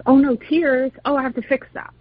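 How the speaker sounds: high-pitched imitation of a fretting parent; mock parental alarm. Parent reacting to a daughter's tears, mock alarm. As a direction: play the parent rushing to fix it.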